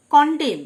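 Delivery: "কন্ডেম" ending on M; silent last N. Shown as a demonstration. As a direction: model "কন্ডেম" with no final N. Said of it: "last এন লেটারটি silent". ("কন্ডেম", শেষের এন উচ্চারণ না করে)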